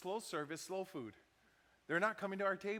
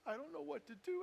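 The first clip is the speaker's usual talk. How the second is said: high, distressed retold plea; tearful; 9 semitones higher, 4 dB quieter than usual. Crying waitress who cannot leave work, tearful. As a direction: imitate helpless upset, pitched well up. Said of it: "And she's just crying".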